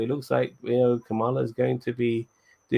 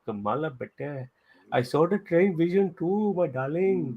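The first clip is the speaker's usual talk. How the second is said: put-on high, drawn-out South Asian grandma accent; grandmother's accent; 7 semitones higher than usual. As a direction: put on a singsong Desi grandma accent, pitched way up. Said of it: "See, I can do the accent".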